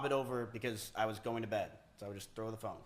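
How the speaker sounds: mumbled through toothpaste; while brushing teeth. Shown as a demonstration. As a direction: talk with a toothbrush in mouth. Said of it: "I will throw you and show you an example".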